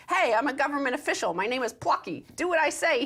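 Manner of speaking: mock a rubber chicken giving orders. Host reading the article voices Plucky the rubber chicken, lightly squeaky. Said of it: "he says in a high-pitched rubber chicken voice".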